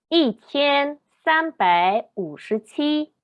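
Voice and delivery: slow, syllable-by-syllable Mandarin numbers; Mandarin pronunciation demo. Shown as a demonstration. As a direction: sound out each Mandarin syllable slowly, tones distinct. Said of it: "Veamos estos ejemplos".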